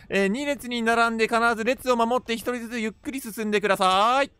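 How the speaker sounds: singsong queue attendant's call; crowd-control staff. Pretend. Streamer as event staff lining up the monsters, announcer call. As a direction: call out polite announcements with stretched endings.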